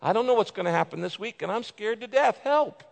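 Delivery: fearful lament. Shown as a demonstration. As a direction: beg God like you're scared to death. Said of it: "You can lament out of fear".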